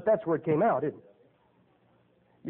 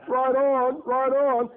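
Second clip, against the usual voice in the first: higher, louder, laid-back hippie drawl; hippie slang; 5 semitones higher, 4 dB louder, much slower than usual. Retold or imitated. Preacher mimics a hippie cheering, hammed-up. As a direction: cheer it like a long-haired hippie in a flower van.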